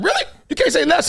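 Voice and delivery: high, incredulous; mock disbelief. To Max Kellerman, a high mock disbelief. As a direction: act shocked you can't say it. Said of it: "I was like".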